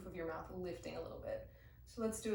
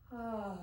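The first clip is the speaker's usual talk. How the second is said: sigh of relief; 2 semitones higher than usual. Shown as a demonstration. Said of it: "And then exhaling".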